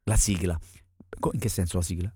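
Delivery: low, hushed copy of her voice; mimicking guest's voice. Host asking the singer about the theme, low mimicry. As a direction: question her in her own low voice. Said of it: "anch'io adesso parlo così".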